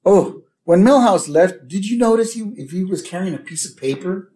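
put-on high-pitched kid's question; Bart. Bart asking about Milhouse's paper, high eager kid voice. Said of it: "Bart says".

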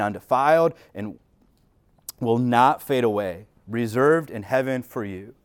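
measured pulpit reading of scripture. Acted. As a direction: read the passage with reverence. Reads scripture aloud.

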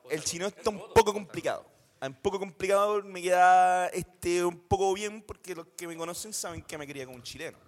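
high-pitched put-on Chilean accent. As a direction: do a comic, lilting Chilean. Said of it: "Tírate el chileno".

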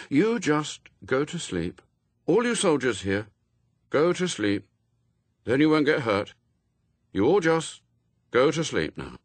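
high, measured hypnotic instruction; commanding young boy. A narrator's reading. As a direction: send them to sleep in spaced phrases. Adam commands soldiers to sleep.

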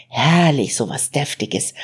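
savouring each word of the hearty sausage; mild contented relish. Acted. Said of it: "sagte er genießerisch".

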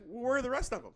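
high, loud mock disbelief; incredulous pressing. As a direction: imitate a baffled roommate pressing further.

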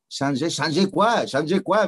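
slow, impatient Quebec French demand; a touch of an irritated Montreal bus driver. Retold or imitated. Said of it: "me decía el tipo".

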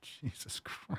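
slow breathless whispered shock; horrified whisper. Real, not acted. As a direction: breathe it out in horror.

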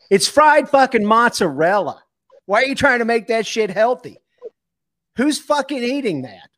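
loud, high angry rant. Real, not acted. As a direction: rant at the air fryer. Air fryer rant.

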